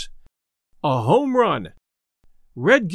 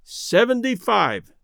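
imperturbable; 3 semitones higher, slower than usual. Acted. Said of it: "added Fuller imperturbably".

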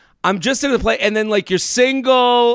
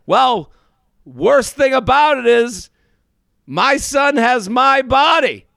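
dad's joke; 3 semitones higher, slower than usual. Retold or imitated. Dad's rib, acted out.

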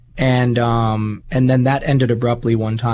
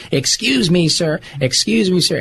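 bellowing customer; 6 semitones higher than usual. Retold or imitated. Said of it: "I can hear her bellowing".

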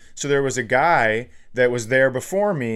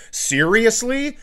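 exasperated; 9 semitones higher, slower than usual. Retold or imitated. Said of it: "somebody goes".

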